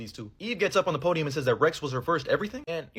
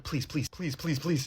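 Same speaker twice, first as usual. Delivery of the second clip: mock crying plea; 6 dB quieter, slower than usual. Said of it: "He starts crying".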